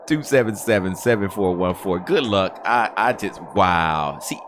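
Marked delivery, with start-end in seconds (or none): 4.2-4.4 shouting high to the world; can't believe it, yell it; disbelieving high shout. Real, not acted.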